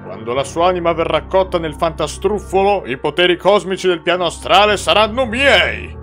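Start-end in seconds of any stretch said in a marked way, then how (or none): 2.9-6.0 villainous triumph. Acted. Villain claims cosmic powers.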